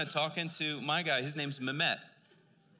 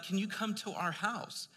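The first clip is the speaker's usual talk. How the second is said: eager invitation; 8 semitones higher than usual. Retold or imitated. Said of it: "they're like".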